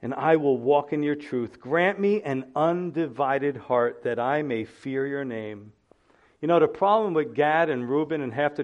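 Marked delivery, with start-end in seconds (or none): 0.0-5.7 slow, prayerful reading that fades out; hushed prayer. Acted. Opens with a prayer.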